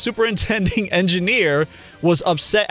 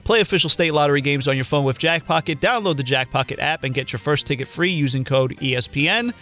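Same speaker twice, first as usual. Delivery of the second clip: steady sponsor read-out. Acted. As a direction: read the ad copy evenly. Reads sponsor ad.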